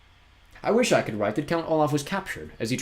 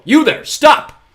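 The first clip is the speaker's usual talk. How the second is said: much higher and louder shout; 15 dB louder, much slower than usual. Acted. Poe yells after Olaf, shouting. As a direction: bellow at the villain.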